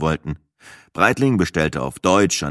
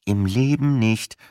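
pressed out; 2 semitones higher, slower than usual. Acted. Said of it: "presste ich zwischen zwei grinsenden Backen hervor".

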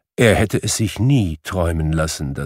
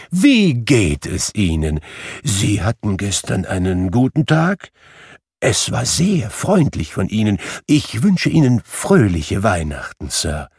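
put-on kindly old Scrooge. Scrooge voiced, reformed and kind.

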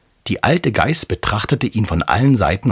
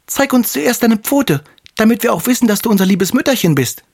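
put-on much higher, slowed, wary kid voices; suspicious goat kids. The kids ask the wolf to show his paw, high and wary. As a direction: demand it carefully like cautious little goats. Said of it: "Die Geißlein aber riefen".

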